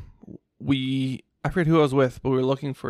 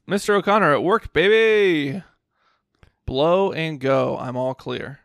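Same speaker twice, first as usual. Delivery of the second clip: louder, drawn-out radio call; loud walkie-talkie call; 3 semitones higher, 4 dB louder, slower than usual. Retold or imitated. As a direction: shout it over the walkie-talkie. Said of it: "loudly on the walkie-talkie".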